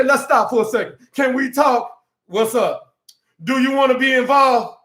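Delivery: mock girlfriend demanding, ending in a shout; pressing girlfriend. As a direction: push him for an answer. Woman pressing a man.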